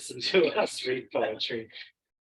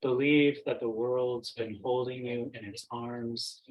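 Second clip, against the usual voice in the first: measured poetry reading with long pauses between phrases; poem recitation. Acted. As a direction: recite it unhurriedly, letting each phrase settle. Recites own poem from memory.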